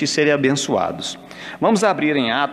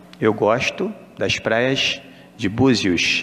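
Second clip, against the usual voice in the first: slow, drawn-out Carioca accent; 4 semitones lower than usual. Showing how a phrase would be said in carioquês: Carioca accent. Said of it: "você vai ter que falar em carioquês ... Seria mais ou menos isso, porque eles falam assim".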